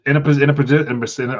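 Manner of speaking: tripping over the words; stuttering. Real, not acted. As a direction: stammer through the restart. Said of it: "man, I'm stuttering today".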